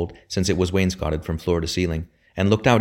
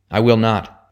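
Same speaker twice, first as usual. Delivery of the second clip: sharp, loud refusal, pitched higher; shouted; 4 semitones higher, 7 dB louder, slower than usual. A narrator's reading. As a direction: fling the refusal out at full voice. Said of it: "shouted Robin".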